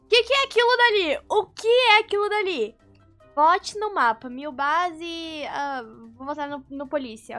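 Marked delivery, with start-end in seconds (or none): 0.0-2.8 sudden alarmed question; startled at something on screen. Real, not acted.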